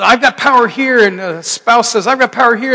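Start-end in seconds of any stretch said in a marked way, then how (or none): 0.0-1.1 higher, louder imitated spouse claiming power; mock quarrel. Acted family power quarrel. 2.1-2.7 higher, louder imitated spouse claiming power; mock quarrel. Acted family power quarrel.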